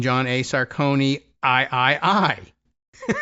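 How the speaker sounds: slow halting robotic read of Sarcone I I I; imitating computer voice. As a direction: mimic a stumbling text-to-speech voice. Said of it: "the computer reading his name".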